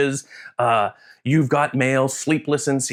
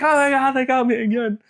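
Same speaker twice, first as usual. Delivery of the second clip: surprised; 13 semitones higher than usual. Retold or imitated. Caught crying at a movie.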